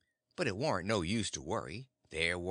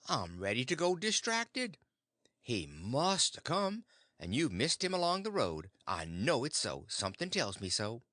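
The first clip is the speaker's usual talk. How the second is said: distracted worry. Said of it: "she says".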